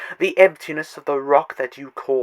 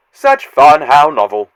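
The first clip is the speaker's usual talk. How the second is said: gleeful; 11 dB louder than usual. Acted. Gleeful villain savouring the novelty.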